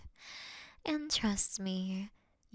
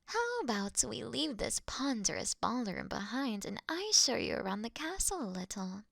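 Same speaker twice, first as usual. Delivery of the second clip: ordinary talk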